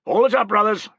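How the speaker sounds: high, loud order to the men; crying out. Acted. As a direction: call it across the mound to the work party. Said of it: "cried Tullus".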